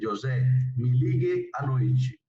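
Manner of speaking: slow, careful Portuguese, noite ending in chi; Portuguese pronunciation. Shown as a demonstration. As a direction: model "me ligue à noite" slowly for the class. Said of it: "Entonces dice". (pronunciación portuguesa lenta)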